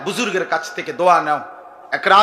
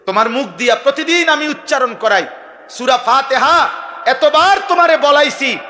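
exasperated preaching shout; 5 semitones higher than usual. Acted. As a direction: hammer the question home at full force. God's voice rising in exasperation.

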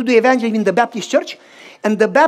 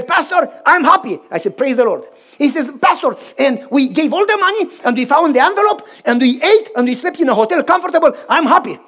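lively, raised and loud; a delighted friend telling the pastor; happy exclaiming; 3 semitones higher, 3 dB louder than usual. Retold or imitated. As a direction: bubble over with gladness. Friend joyfully recounting the blessing.

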